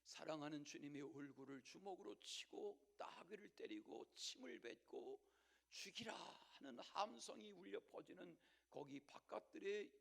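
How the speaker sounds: ordinary talk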